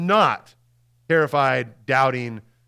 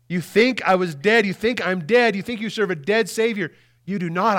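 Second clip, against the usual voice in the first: risen Jesus speaking; 5 semitones higher than usual. Acted. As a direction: declare it to doubting friends. Pastor voices the risen Jesus.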